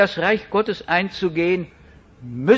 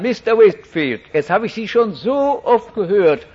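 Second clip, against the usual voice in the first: louder, fed-up woman pressing a question; woman confronting the preacher, louder and exasperated; 2 semitones higher, 5 dB louder than usual. Retold or imitated. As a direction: play the impatient listener demanding an answer. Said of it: "hat gesagt".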